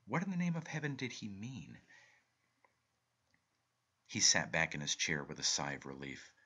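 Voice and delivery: plain reading voice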